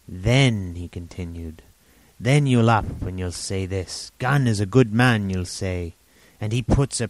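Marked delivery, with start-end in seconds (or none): 0.1-0.8 lightly voiced rambling old sailor; a hint of an eager half-mad hermit; old castaway Ben Gunn. 2.2-5.9 lightly voiced rambling old sailor; a hint of an eager half-mad hermit; old castaway Ben Gunn.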